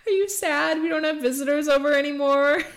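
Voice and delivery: sweet doggy talk. Real, not acted. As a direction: talk to the dogs like babies. Talking to her dogs.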